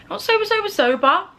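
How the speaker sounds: "sober, sober" pitched high and leaned on; stress on repeated sober. Real, not acted. Clarifies sober by stressed repetition.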